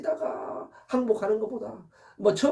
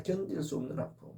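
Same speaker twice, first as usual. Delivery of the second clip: much softer repeat, 견딜 수 없는 아픔 sinking away; soft echo; 7 dB quieter than usual. Shown as a demonstration. Preacher echoing his own words to the congregation, hushed. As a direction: let 견딜 수 없는 아픔 fall to a hush. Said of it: "견딜 수 없는 아픔입니다".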